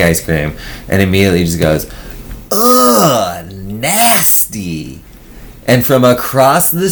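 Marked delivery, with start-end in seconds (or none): 2.5-5.0 disgusted ugh. Retold or imitated. Friend reacting to green tea ice cream with disgust. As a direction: act out spitting out bad ice cream.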